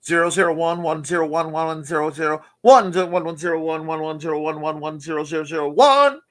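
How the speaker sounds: rattled-off auctioneer patter of numbers. Pretend. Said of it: "sounds like an auctioneer who got dyslexic".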